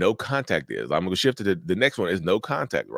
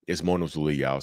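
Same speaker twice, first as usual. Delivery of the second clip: yawning; 5 semitones lower than usual. Real, not acted. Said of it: "Sorry, I, I'm yawning".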